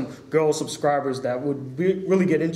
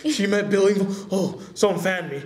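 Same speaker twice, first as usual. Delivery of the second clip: playfully starstruck, a little higher; hammed-up fanboy awe; mock fanboy gushing; 4 semitones higher than usual. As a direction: swoon like an overwhelmed fan. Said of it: "I went fanboy".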